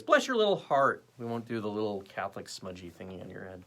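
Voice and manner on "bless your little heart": higher-pitched blessing, falling at the end; mock blessing. Shown as a demonstration. Host blesses a forgiven viewer's little heart, higher mock blessing. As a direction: lift BLESS high, then let it fall. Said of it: "we'll do it like this".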